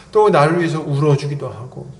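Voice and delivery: ordinary delivery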